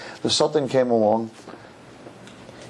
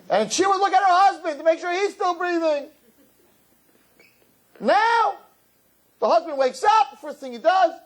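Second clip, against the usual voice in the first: high, impassioned preacher voice; high-pitched passionate sermon; fervent preaching. Acted. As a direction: preach it up to the rafters. Preaching at full force.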